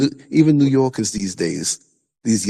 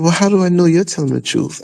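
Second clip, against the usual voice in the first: higher-pitched retort quoting her doubt; challenging mock question; 4 semitones higher, 3 dB louder than usual. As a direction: demand proof, voice lifted.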